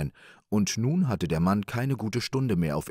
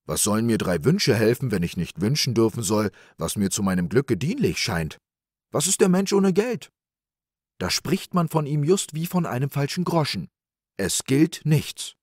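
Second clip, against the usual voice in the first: louder, higher plea of an indignant man; raised voice, slowing emphatically at the end; protesting man; 5 semitones higher, 5 dB louder than usual. A narrator's reading. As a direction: argue his case for money.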